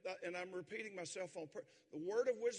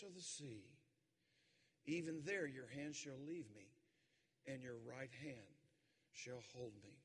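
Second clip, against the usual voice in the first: quieter, tender scripture ending; soft close; 5 semitones lower, 4 dB quieter than usual. Acted. Preacher softly finishing the psalm to the church. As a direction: bring it down gently to comfort.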